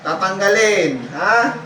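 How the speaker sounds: insistent healer's demand; stern command. Real, not acted. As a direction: order the spirit to obey. Healer orders spirit to remove it.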